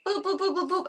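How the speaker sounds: high, sing-song boops. Real, not acted. Booping the cat's snout in high baby talk.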